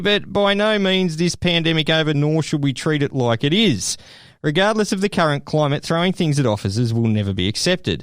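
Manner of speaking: lightly put-on English official; bad English accent. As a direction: read it as a pretend English officer. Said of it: "That was the worst English accent ever".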